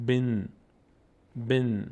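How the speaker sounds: "بن" as one syllable with held n; joined syllable demo. Shown as a demonstration. Teacher joining be to nun, held demonstration. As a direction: hold the n at the end of "بن". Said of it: "کسرهٔ با میچسبه به نون".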